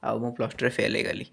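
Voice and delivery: subdued, sinking falling tone. Acted. Student admitting failure in Plus Two, subdued falling tone. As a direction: let the line drop away, mildly dejected. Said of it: "ଏଇଟା ଆପଣଙ୍କର falling tone".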